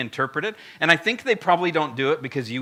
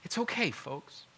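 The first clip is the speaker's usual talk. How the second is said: fluffy reassurance. Acted. Preacher voicing a gentle Moses soothing the folks, fluffy. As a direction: lull them like everything is just fine. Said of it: "when you read it with the fluffy tone".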